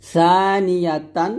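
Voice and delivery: tongue on upper teeth for the সা of সানিয়াতান; thin tha. Shown as a demonstration. Teacher showing the thin letter, সানিয়াতান with TH onset. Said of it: "সা পাতলা".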